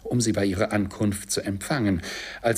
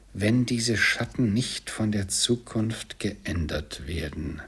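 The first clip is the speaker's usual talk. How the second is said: slow repetition. Acted. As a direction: repeat the warning slowly, word by word. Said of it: "wiederholte das Gespenst".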